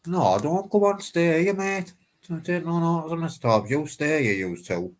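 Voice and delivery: high loud call to passersby. Real, not acted. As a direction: shout them back, pitched high. Calling to passersby to stay.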